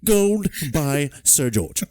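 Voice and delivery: high, hammed-up old codger; gruff old man voice. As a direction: drawl it like a pompous old man. Continuing the Morse bit.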